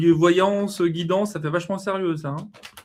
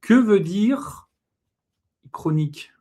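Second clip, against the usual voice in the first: slow, drawn-out Que veut dire chronique; mock solemn question; 2 semitones higher, slower than usual. Host ponders the word aloud, slow and solemn. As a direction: read it like a dictionary entry. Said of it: "Point d'interrogation".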